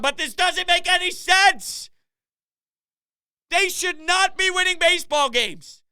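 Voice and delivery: high-pitched, exasperated protest; incredulous rant. Real, not acted. Host baffled by team's undeserved wins, incredulous. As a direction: insist that it defies all sense.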